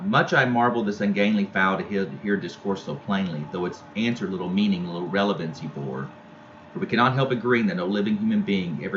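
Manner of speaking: measured poetry recital; poem reading. Acted. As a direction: read the verse aloud for the class. Teacher reads poem aloud.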